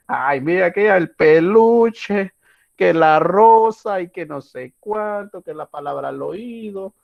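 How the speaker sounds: hammed-up weepy nostalgia, high and drawn out; mock tearful reminiscing. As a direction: lovesick ex lingering over each keepsake, slowly. Imagined lover reminiscing in tears.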